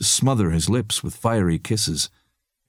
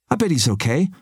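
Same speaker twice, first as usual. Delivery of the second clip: hopeful, higher voice; optimistic; 8 semitones higher than usual. A narrator's reading. Lex reassures Ricky about Blade, upbeat and hopeful. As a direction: reassure him brightly. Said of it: "Lex said optimistically".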